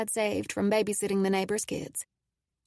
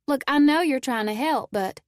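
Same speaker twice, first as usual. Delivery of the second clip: irritated, raised voice; frustrated; 5 semitones higher, 5 dB louder than usual. A narrator's reading. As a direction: scowl and push back. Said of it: "I scowled at him".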